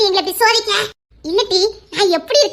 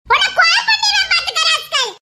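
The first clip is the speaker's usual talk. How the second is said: mock threat; 7 semitones higher than usual. Playful threat between sisters.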